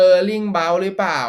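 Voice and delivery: slow, half-hopeful question about the card; slow doubtful question. Real, not acted. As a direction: drag out Erling Braut หรือเปล่า very slowly, unsure. Same name, slow doubting.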